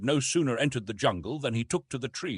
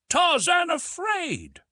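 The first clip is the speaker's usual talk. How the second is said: much higher, slow amused exclaim; amused disbelief; 5 dB louder, slower than usual. A narrator's reading. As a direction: scoff gently at the very idea. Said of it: "Darnot smiled".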